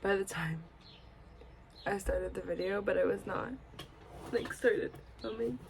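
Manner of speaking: sleepy, through a yawn. Real, not acted. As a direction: still yawning while talking. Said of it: "I thought I'd be finished yawning".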